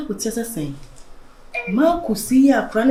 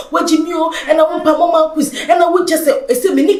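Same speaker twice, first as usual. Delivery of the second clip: shout; 6 semitones higher than usual. Acted. Shouting in quarrel.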